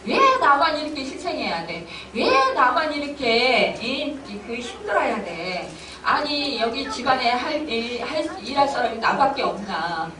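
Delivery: mildly hammed-up exasperation; irritated grumbling. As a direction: grumble like the only one stuck with the work. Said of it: "은근히 짜증이 나요".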